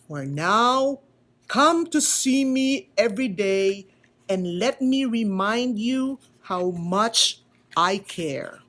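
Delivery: slow, gentle explanation; lightly voiced wise old carver; slow tender teaching; patient maker. Eli voice held.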